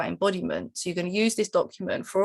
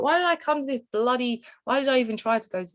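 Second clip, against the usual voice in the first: mock road rage; 5 semitones higher than usual. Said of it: "you've got road rage".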